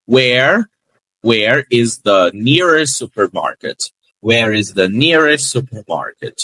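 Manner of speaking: slow Where is the nearest supermarket with nearest clipped; repeat-after-me model. Shown as a demonstration. Teacher leading students to repeat the phrase, slow. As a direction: model it for the class to echo. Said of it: "repete aí comigo".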